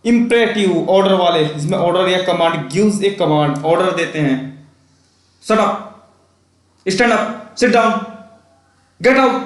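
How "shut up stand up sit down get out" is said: barking orders. Shown as a demonstration. Teacher demos imperative commands to the class, stern. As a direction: order them about sternly. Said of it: "ऐसे बोलते हैं".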